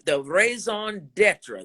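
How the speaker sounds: "raison d'etre" said slowly in a French style; French phrase. Shown as a demonstration. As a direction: lean into the French of "raison d'etre", taking it slow. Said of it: "you know, that's French, y'all".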